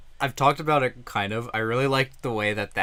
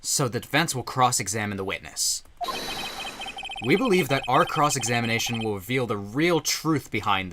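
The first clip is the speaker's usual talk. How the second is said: confident lawyer declaration. Acted. Phoenix objection read.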